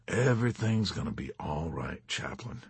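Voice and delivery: soft, low reassurance to a frightened man; encouraging. Acted. Major gently reassuring the chaplain, softly encouraging. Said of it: "the major said encouragingly".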